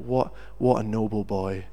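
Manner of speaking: understated wonder, at talking level; musing admiration. Retold or imitated. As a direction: think it aloud admiringly. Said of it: "I thought".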